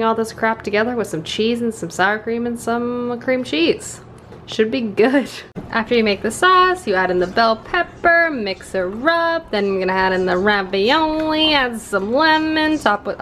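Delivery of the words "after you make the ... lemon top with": put-on talking style. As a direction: stretch the ends of each cooking step. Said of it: "I don't know why I'm talking like this".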